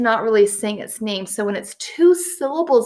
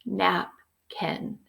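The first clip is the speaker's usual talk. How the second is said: feeling the syllables; 2 semitones lower, 8 dB quieter than usual. Shown as a demonstration. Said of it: "when I feel it".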